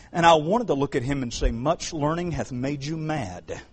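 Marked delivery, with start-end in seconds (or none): 1.5-3.6 laughing. Retold or imitated. Joking retort to the prophecy man.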